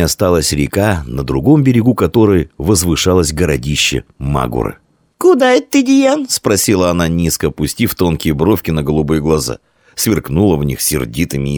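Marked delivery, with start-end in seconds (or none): 5.2-6.3 put-on high, loud little girl asking; girl's voice. A narrator's reading. Girl with geese questions Dian, high girlish voice. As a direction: pitch it up as an angry little girl.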